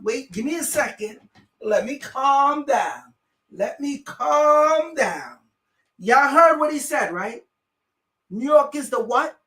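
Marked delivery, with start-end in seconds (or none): 1.6-5.4 calming himself. Real, not acted.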